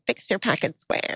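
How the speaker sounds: soft, half-whispered mock command; mock hushed order. Bride ridiculing the order groom imagined, mock hushed order. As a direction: quote it quickly under the breath.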